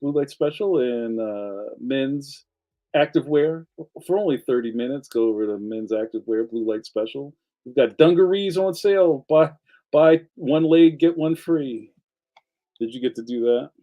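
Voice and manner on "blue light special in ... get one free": lightly acted store announcement; store PA announcer. Shown as a demonstration. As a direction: announce a sale over the store intercom, half in jest. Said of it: "you would go say something like this".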